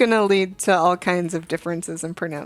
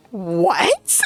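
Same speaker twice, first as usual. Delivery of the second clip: baffled mock "what"; confused teacher. Teacher who never played Pokemon hears the excuse, confused imitation. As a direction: imitate a teacher thrown by the explanation. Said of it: "then she was very confused".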